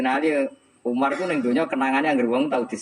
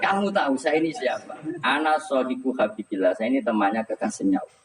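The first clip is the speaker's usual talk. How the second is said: half-playful, raised-pitch scolding as Umar; Umar snapping; 3 semitones higher than usual. Retold or imitated. Umar scolding Munkar Nakir in the grave, mildly sharp, raised pitch. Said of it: "Umar ngewatek".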